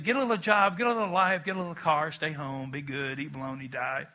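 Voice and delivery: a hint of an overprotective parent, fading to a mumble; worried parent. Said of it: "parents are like".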